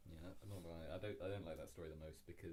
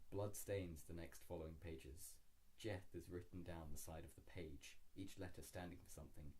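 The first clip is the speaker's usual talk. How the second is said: ominous reading; 2 semitones lower than usual. Acted. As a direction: read it like a grim omen. Reading dark story aloud.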